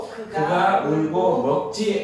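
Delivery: slow, measured chant of the Bible text; scripture reading. Acted. Teacher leads the class reading the Samuel passage, solemn and slow. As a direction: read it aloud like a solemn recitation.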